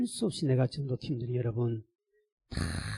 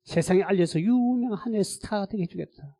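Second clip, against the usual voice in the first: high, loud pulpit delivery; full-force preaching; 8 semitones higher, 8 dB louder than usual. Acted. Pastor telling congregation his calling, full-force preaching. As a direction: drive it home to the congregation.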